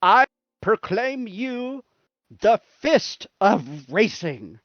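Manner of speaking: mock-solemn title bestowal; grand proclamation. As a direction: knight them with your words.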